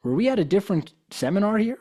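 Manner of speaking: as if he couldn't believe his ears; incredulous. Retold or imitated. Incredulous retort to attendee.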